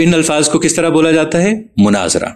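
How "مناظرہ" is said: مناظرہ said munazra, pesh on meem, zoe silent; مناظرہ with no vowel after z. Shown as a demonstration. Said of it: "میم کے پیش اور زوئے کے سکون کے ساتھ".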